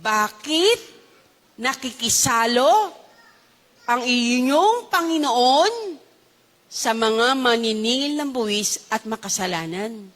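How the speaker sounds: word by word, with long pauses; slow deliberate repeat. Shown as a demonstration. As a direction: repeat the question slowly in separated chunks. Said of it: "Ulitin ko". (mabagal, putol-putol na pag-uulit)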